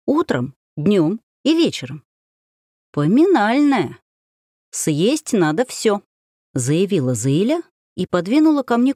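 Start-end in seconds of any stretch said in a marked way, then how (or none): 2.9-6.0 веско и медленно. Acted. Зыля строго велит всё съесть.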